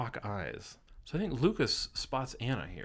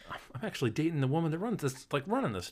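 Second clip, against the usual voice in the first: mock British accent; 5 semitones higher, faster than usual. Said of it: "we don't know what we're doing with this accent".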